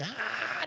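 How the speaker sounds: high drawn-out mock "aah"; a high, soft imitation of a cry; imitated cry. Friend mimicking the girls at the cemetery, mock cry.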